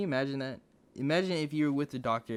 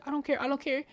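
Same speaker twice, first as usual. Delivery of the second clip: mock defiant; 12 semitones higher, faster than usual. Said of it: "she said".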